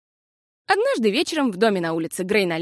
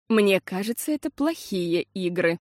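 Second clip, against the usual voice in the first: ordinary delivery, nothing marked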